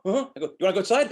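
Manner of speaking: high, eager voice for the dog; baby talk to the dog; excited dog talk. Retold or imitated. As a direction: hype the dog up, high pitch. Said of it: "I go".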